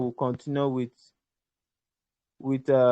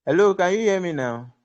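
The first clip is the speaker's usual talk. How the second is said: louder, higher call into a dropped call; calling out over bad line; 4 semitones higher, 4 dB louder than usual. Real, not acted. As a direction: call out to check they hear you. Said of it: "I can't hear you speaking".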